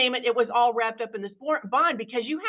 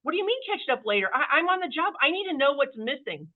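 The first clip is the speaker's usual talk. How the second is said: exasperated husband; 5 semitones higher than usual. Retold or imitated. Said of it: "And Dominic's like".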